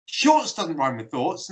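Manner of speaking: lightly imitated American accent; a hint of mock American, slowly. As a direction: retell it with slow American vowels. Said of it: "they're being American".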